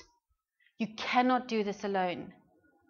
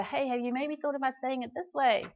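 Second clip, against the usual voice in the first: gentle suggestion; 4 semitones higher than usual. Retold or imitated. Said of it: "teach you in a very gentle way".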